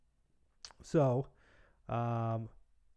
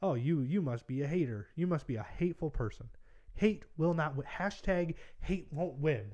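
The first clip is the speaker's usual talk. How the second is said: slightly raised mocking voice of an indignant voter; mock accusing voter; 3 semitones higher than usual. Vlogger imitating a Democrat voter calling him a hater, mock accusing. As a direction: lightly parody someone scolding a hater. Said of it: "general Democrat voter will look at that and say".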